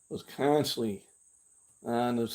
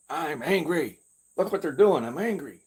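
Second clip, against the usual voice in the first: mildly hammed-up anger, a bit louder; imitating his old angry self; mock angry; 5 semitones higher, 4 dB louder than usual. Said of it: "watching all the news and getting angry".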